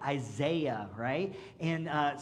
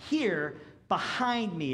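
authoritative command; slower than usual. Shown as a demonstration. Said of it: "The Greek kinda has the suggestion of authority".

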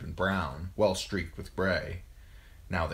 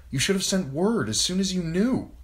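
high, louder accusation; angry reproach; 13 semitones higher, 6 dB louder than usual. A narrator's reading. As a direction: hurl the reproach at him, pitch raised. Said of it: "A blind rage filled her".

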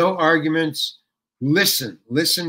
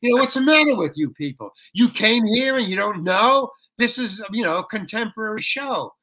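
ranting; 5 semitones higher than usual. Retold or imitated. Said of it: "I start ranting at them".

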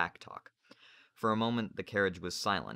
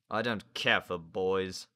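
gruff sailor; 4 dB louder, slower than usual. Acted. Narrator voices Slank.

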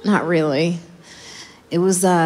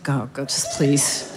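weary door woman; 5 semitones lower than usual. Retold or imitated. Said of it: "she's like".

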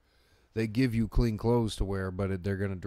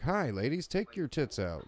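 cheery cameraman; 6 semitones higher than usual. Acted. Acts out cameraman propositioning women.

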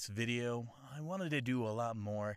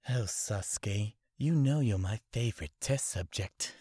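creepy anime villain; 6 dB louder than usual. Retold or imitated. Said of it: "anime impression video".

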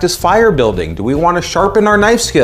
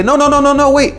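emphatic no; 12 semitones higher than usual. Retold or imitated. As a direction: cut them off, raised and high. Stopping kids, calling out.

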